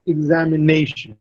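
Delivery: "examination" said ex-am-i-NA-tion; stress on NA. Shown as a demonstration. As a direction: lean on the fourth syllable of "examination". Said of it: "The stress is on ne".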